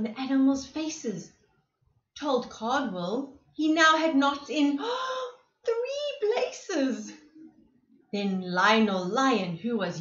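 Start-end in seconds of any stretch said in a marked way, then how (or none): 4.8-5.3 a sharp high gasp of dismay; sudden high intake of breath. Acted. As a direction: gasp in shock. Narrator gasps at dismay.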